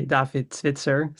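"David Zwitser" said the Dutch way; Dutch pronunciation. Shown as a demonstration. Guest introduces himself to the hosts, Dutch pronunciation of "David Zwitser". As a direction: say "David Zwitser" as a Dutch name, ts before the final -er. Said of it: "In Dutch, you'd say".

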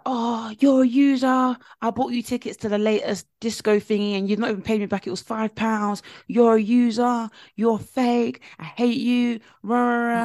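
mock crying rant. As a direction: wail out the accusations in mock upset, tailing into blah-blah. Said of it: "she stormed out crying".

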